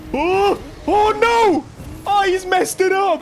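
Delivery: very high, loud "oh no" cries; excited alarm. Real, not acted. Racer watching his rival mess up, excited yell. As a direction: exclaim in a burst of disbelief.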